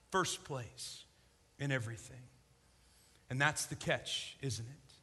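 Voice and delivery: soft, low, intimate emphasis; quiet conviction; hushed preaching. Acted. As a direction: drop to near silence to land it. Quiet intense sermon climax.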